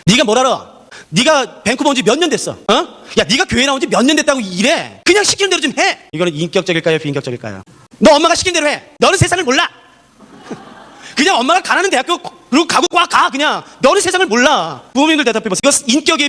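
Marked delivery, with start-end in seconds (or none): 0.1-6.0 put-on higher, exasperated scolding of a child; parent scolding. Parent scolds child about church, in an irritated higher voice. 8.0-14.8 bossy mother. Acted. Mother orders her child which college to attend, higher and pushy.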